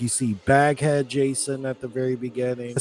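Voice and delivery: ordinary delivery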